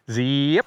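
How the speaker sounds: buzzy rising "zee" snapped off with "up"; stretched zee with a quick stop; zipper birdsong. Shown as a demonstration. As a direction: imitate a parula's zipping call. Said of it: "It's a zipper".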